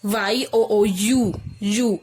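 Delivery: "यू" said as a drawn-out yoo; YOU sound. Shown as a demonstration. Teacher answering whose sound is heard, "यू" sounded out as yoo. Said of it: "sound किसकी आ रही है".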